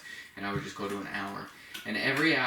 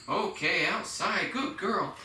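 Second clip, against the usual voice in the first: much higher, singsong praise for the puppy; 8 semitones higher, slower than usual. Shown as a demonstration. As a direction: lift the voice way up, bright and happy. Praising the dog, voice jumps.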